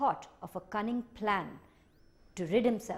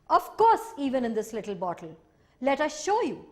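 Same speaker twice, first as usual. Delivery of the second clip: high, loud, eager creature voice; boastful creature; 4 semitones higher, 8 dB louder than usual. Acted. The Minihos showing off to Hanahito, high, loud and eager. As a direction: boast it like a cocky little sprite.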